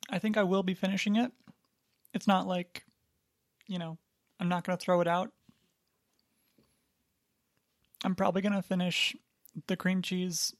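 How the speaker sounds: talking through a mouthful; words round a bite of food; mouth full. Real, not acted. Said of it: "say this with my mouth full".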